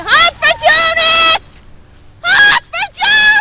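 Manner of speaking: pumped-up chant for passing cars; excited cheer. Shown as a demonstration. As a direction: show them how to be excited. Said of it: "Be excited like me".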